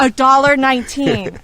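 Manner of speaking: loud, stunned repeat of the price; amazed. Real, not acted. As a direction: say it like it's unbelievably cheap.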